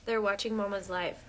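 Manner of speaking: hushed and tender with her son; soft mom voice. Real, not acted. Softly talking to her son.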